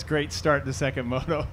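dry sarcastic quote. Retold or imitated. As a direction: say it sarcastically, meaning the opposite. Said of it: "being sarcastic".

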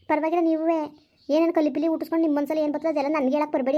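angry retort. Acted. Girl hits back in quarrel.

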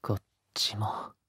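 soft hushed aside; whisper. Acted. Lover moving on to another spot, whispered. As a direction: murmur it right at the ear.

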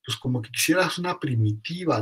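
un toque de sospecha fingida; sospechosamente. Pretend. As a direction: pregunta con leve recelo, como alumno dudoso. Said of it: "así un poco sospechosamente". (un alumno escéptico pregunta con ligera sospecha)

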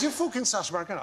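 put-on second try at a Grimsby accent. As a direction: imitate an insistent Grimsby pub local. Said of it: "sorry, the accent is totally wrong".

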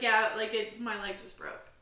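imitating an offhand, unbothered admission; nonchalant. Skydiving friend retelling her landing, nonchalant. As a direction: play the bad news as no big deal. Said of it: "like, no nonchalant".

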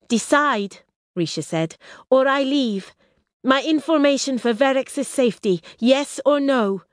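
impatient princess. Acted. Risha's ultimatum.

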